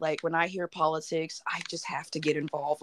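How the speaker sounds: whisper. Real, not acted. Confessing, unvoiced whisper.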